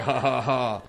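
imitating a boy's taunting laugh; spoken fake ha-ha-ha of a smirking kid; smirking mock laugh. First-grader mocking his angry caretaker, smirking laugh. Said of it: "kinda, like, laughing".

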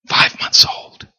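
slow whispered answer; whispered aside. Real, not acted. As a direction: whisper it slowly to one person. Aside to a parent.

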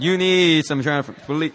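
sassy "need", leaned on; with attitude. Shown as a demonstration. Preacher showing the congregation what to tell neighbors, with attitude. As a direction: say it to your neighbor with some attitude. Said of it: "Say it with some attitude".

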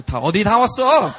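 loud, high, fast outburst; mock confused demand; confused waking girl. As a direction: imitate a disoriented passenger.

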